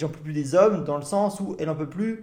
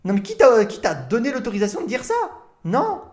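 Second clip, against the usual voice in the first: indignant; 3 semitones higher than usual. Real, not acted. Streamer outraged at the man calling women plastic, indignant. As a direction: demand how he dares say it.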